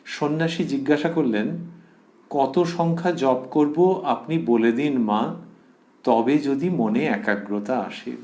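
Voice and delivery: slow, deliberate reading of a dialogue; scripture reading aloud. Acted. Monk asks Mother how much japa to do, slow measured reading. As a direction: read the monk's question out slowly.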